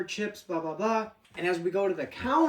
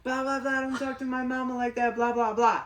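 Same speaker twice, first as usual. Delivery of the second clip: higher-pitched mock protest of a boy; mock the kid standing up for his mom; mimicking a kid; 4 semitones higher than usual. Mimics the kid confronting him.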